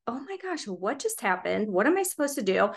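retold bewildered self-talk; flustered. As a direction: replay a moment of mild panic under your breath. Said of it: "flustered from that".

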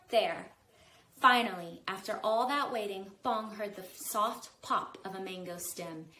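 calm read-aloud narration; story narration. A narrator's reading. Author reading her book to kids, storytelling voice. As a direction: tell it like a bedtime story.

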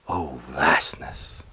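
a breathy final whisper, barely there. Acted. Poet ending his poem on a soft whisper. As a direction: let the last words dissolve into a whisper.

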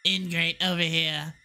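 normal talking voice

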